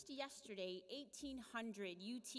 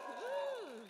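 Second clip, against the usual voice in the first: cheer; 7 dB louder than usual. Real, not acted. Host cheering for Sierra Club.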